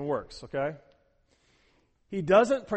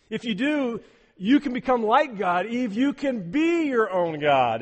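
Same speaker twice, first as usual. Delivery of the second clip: tempting promise; 6 semitones higher, 7 dB louder than usual. Pretend. Voicing Satan's tempting promise.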